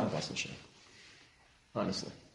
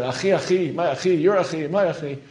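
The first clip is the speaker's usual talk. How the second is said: mocking over-familiarity; 5 semitones higher, 6 dB louder than usual. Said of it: "you don't talk like that".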